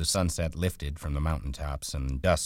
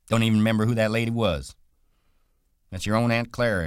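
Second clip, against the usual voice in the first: scoffing; 7 semitones higher, 6 dB louder, faster than usual. Acted. George scoffs.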